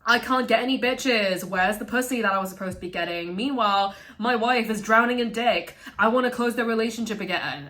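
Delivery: mock a desperate husband; hammed-up entitled whine; whiny husband. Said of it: "the husband is like".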